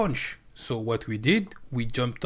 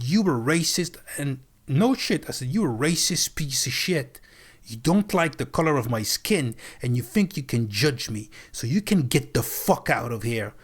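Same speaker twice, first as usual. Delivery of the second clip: retold angry outburst. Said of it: "ready to make a scene".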